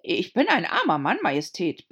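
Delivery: shaking, pleading voice; trembling voice. A narrator's reading. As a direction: quiver like a frightened man. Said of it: "mit bebender Stimme".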